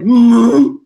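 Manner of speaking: loud imitated hum; a big, puzzled-sounding "mm"; Christopher Lloyd. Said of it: "that sort of Christopher Lloyd".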